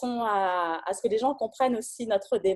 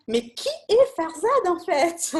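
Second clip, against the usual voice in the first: higher, mock-curious question; puzzled viewers; 8 semitones higher, 3 dB louder than usual. Host voicing viewers who wonder who the guest is, mock-puzzled. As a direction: play the baffled viewer wondering aloud. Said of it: "sont sûrement en train de se dire".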